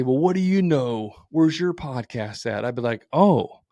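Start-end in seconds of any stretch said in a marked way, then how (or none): 0.0-2.6 snarky clap back. Retold or imitated. Podcaster imagines snapping back at a bad reviewer, mock snarky. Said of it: "clap back at him and say". 3.1-3.6 eagerly curious. Pretend. Imagined eager reply to critic.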